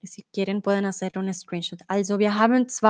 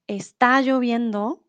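example phrase. Shown as a demonstration. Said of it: "es anders zu sagen".

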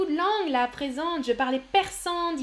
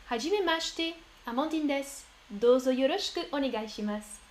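light Japanese accent on a self-introduction; Japanese greeting. Real, not acted. Teacher introduces herself in Japanese, light Japanese accent. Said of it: "Je parle un petit peu japonais".

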